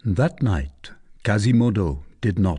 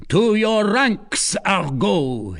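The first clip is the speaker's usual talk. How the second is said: slow, high, loud battle order; rally the troops; commanding cry; 9 semitones higher, 3 dB louder, slower than usual. Acted. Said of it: "he cried".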